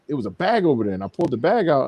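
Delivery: ordinary talk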